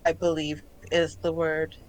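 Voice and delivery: halting, measured search for a word; composed otherworldly explanation; calm collective voice. Acted. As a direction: pause carefully as an alien mind choosing words. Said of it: "the tone is very calm".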